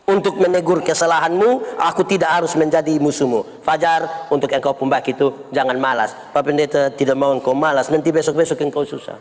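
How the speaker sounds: gentle admonishment. Acted. Pastor telling Fajar not to be lazy, gentle admonishment. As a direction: correct him calmly, as no enemy.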